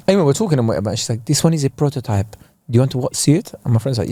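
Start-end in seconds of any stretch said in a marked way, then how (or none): 1.2-3.5 lightly imitated French accent. Saleswoman offers visitors a prototype watch, lightly imitated French accent. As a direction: put on a mild French accent. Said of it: "she had a French accent".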